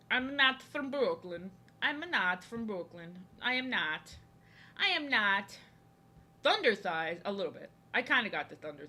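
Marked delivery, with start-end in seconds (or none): 0.1-5.6 slow, stretched-out protest; hammed-up insistence; mock emphatic denial. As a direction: deny it with exaggerated, deliberate words. Mock denial of being from Brooklyn.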